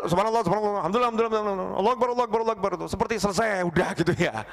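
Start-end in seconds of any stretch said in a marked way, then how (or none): 0.1-2.7 rushed careless dhikr. Shown as a demonstration. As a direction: rattle off the phrases mechanically. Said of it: "Jangan asal".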